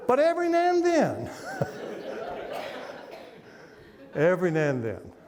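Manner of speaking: words squeezed out high through laughter; laughing. Real, not acted. Pastor still laughing at his wife's joke, laughing through words. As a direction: try to speak while still cracking up.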